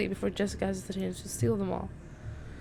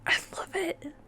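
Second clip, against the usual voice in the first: high, thrilled squeal of delight; gushing; 10 semitones higher than usual. Real, not acted. Gamer fangirls over the hair flip, high and gushing.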